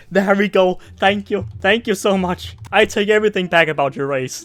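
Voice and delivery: gushing loud excitement; excited yelling. Real, not acted. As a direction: burst out with delight. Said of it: "Why you're screaming?".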